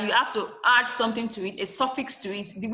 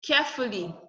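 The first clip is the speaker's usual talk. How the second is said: Carefully with CARE still stressed. Shown as a demonstration. Teacher adds li to careful, CARE still stressed in Carefully. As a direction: keep the force on the first syllable of Carefully. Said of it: "there's nothing, nothing changes".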